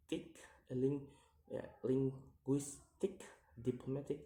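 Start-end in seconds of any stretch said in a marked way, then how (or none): 1.8-3.2 "linguistic" split into syllables; separated syllables on "linguistic". Shown as a demonstration. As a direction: sound out "linguistic" piece by piece. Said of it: "count the word syllable backwards".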